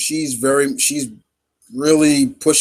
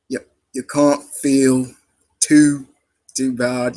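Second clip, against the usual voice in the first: slow, halting Cockney attempt; rough Cockney demo; Cockney accent; slower than usual. Shown as a demonstration. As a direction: feel your way into a Cockney accent. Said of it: "that's kind of a Cockney accent".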